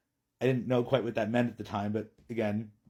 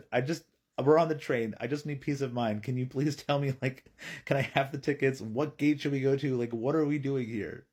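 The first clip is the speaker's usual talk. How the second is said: mildly pleading, a little higher; retold anxious plea; 4 semitones higher than usual. Dad begging the ticket holder from the train, mild retold plea. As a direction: plead for some reassurance, lightly acted.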